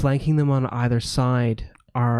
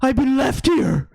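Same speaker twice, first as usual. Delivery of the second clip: sad dog voice; 11 semitones higher, 4 dB louder than usual. Acted. GM voices the lost hound.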